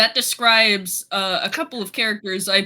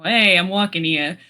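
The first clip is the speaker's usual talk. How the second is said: brash New York street voice; lightly done New York accent; 3 semitones lower than usual. Pretend. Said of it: "I'm loving the New York accent".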